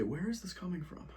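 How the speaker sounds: softly wondering where it comes from; gentle inquiry. Shown as a demonstration. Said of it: "you gently inquire".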